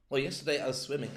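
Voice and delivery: Or hit with a fall, rest level; stress on or. Shown as a demonstration. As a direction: push the word Or. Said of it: "That would all emphasize".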